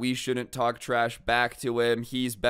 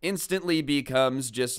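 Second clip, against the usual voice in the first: usual speaking voice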